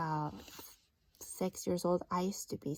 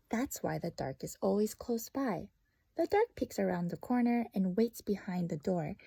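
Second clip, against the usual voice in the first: story narration. Acted. The dark's long speech.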